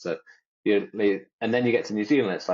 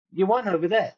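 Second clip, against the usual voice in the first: insistent repeat; 9 semitones higher than usual. Retold or imitated. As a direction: say it again to the puzzled mum. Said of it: "I said".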